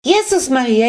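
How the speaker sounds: put-on high, loud old woman's shriek; frantic elderly cry of alarm; hysterical shriek. A narrator's reading. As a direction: scream it in sudden shock. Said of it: "ganz hysterisch kreischen".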